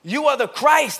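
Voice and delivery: Peter's confident declaration; declaring. Retold or imitated. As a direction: announce it with conviction. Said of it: "but I would imagine".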